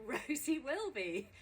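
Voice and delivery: high, loud announcer build to a shout; rousing show announcement. Real, not acted. Host opening a live garden recording for the audience, rousing announcement. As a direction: announce the venue, swelling to a big cheer-raising finish.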